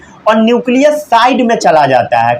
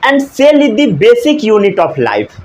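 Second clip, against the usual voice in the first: slow recitation; much slower than usual. Shown as a demonstration. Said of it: "teacher recapping definition".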